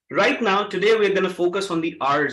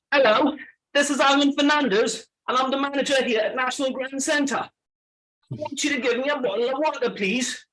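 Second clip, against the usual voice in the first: higher-pitched British accent with dropped final R's; 4 semitones higher than usual. Shown as a demonstration. Trainer demonstrates British to a class, asking for water, British accent. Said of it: "to the British accent".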